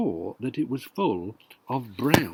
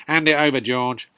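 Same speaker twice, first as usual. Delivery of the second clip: demanding grandma; 7 dB louder than usual. Acted.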